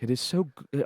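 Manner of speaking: attempted Japanese-accented English. Shown as a demonstration. Author demonstrating his audiobook voices, attempted Japanese accent. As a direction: start it in a put-on Japanese accent. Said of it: "for Japanese voices".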